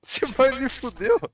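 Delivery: angry shout. Real, not acted. Heated exchange after being shot.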